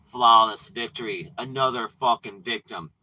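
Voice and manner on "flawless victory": punchy announcer call on Flawless; a touch of arcade announcer boom; lightly voiced game announcer. Demons gloat over another victim, announcer voice. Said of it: "They go".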